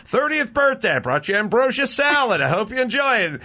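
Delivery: high, eager guest voice; eager party guest. Retold or imitated. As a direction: offer the salad brightly. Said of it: "come back again".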